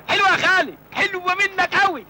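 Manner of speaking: sarcastic whine; mock hurt. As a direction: feign injured pride. Mock-hurt reaction to uncle.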